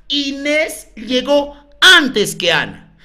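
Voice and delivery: slow, each word spaced out; slow dictation. Shown as a demonstration. Teacher dictating a clue to colleagues, slowly. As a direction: spell it out slowly so they can copy. Repeating clue after "qué cosa.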